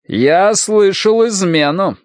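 drawn-out, menacing charge; imperious accusation. A narrator's reading. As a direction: accuse him of treason, word by word. Minister accuses defiant officer of treason.

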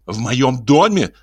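slow, high female voice, menacing; stern wife. Acted. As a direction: lay down the law as lady of the house. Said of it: "сказала она грозно".

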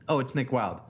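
ordinary talk, nothing marked

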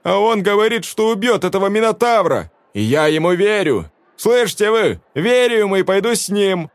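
high, loud defiant plea; woman defending the stranger; impassioned cry. A narrator's reading. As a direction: make them hear you. Velda defies crowd.

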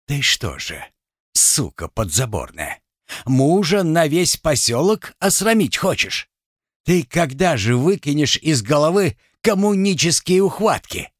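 rising into a furious rebuke; angry husband. Acted. Husband shaming his wife for wanting the meeting, angry. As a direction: scold her, building in rage.

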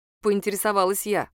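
ordinary delivery, nothing marked

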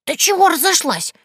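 high, mocking crone voice; teasing old Yaga. Old Yaga teases the girl, in a high mocking crone voice. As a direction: wag a finger and tease her. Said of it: "Яга погрозила ей пальцем".

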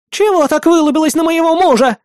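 high, loud screeching accusation; shouting wife. A narrator's reading. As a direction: yell at the staring woman. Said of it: "вновь воскликнула та баба". (жена визгливо кричит)

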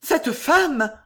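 effroi joué, voix haut perchée; effroi murmuré. A narrator's reading. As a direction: demande dans l'aigu, saisie d'effroi. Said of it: "murmura Juliette livide". (murmure livide, joué en voix haute)

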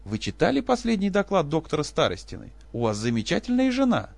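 husband mimicking colleagues praising his wife; mocking others. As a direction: parody the admiring colleagues.

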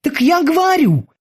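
high, eager sailor's voice; squeaky dutiful boatswain. Acted. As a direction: report to the captain like a keen young sailor. Boatswain Kiki repeats.

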